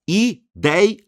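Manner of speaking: "Ideia" split as i-DEI-a, stretched DEI; syllable by syllable. Shown as a demonstration. Teacher breaks Ideia down for the class, syllable by syllable. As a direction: sound out "Ideia" in three separate beats. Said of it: "São três sílabas".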